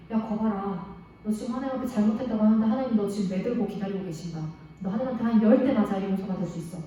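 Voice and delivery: a hint of a sneering devil, fast and a bit low; taunting devil. Preacher voicing Satan's lie to the kids, fast mild taunt. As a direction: rattle off the devil's lie quickly, lightly mocking. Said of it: "사단이 거짓말을 넣어주는 거예요".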